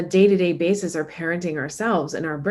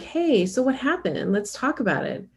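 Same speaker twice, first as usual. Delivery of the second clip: kind parent; 4 semitones higher than usual. Retold or imitated. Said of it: "The treatment that you do grow underneath is like".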